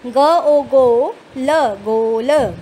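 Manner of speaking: teacher drawing out each letter loudly; slow loud spelling. Shown as a demonstration. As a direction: stretch every sound for young readers. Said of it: "मेरे साथ साथ पढ़िए".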